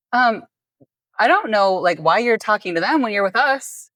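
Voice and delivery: feigned puzzlement. Retold or imitated. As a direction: imitate a friend feigning puzzlement. Acting out stranger's staged rescue.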